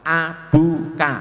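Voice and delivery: "Abuka" read slowly, syllable by syllable; contoh bacaan. Shown as a demonstration. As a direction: sound out "Abuka" as a teacher's model. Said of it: "bunya saja dua harokat". ("Abuka" dibaca perlahan per suku kata)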